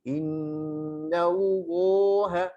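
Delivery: "Allaha" with thick, heavy L; heavy Allah. Shown as a demonstration. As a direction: darken the L in "Allaha". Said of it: "tebalkan Allahnya".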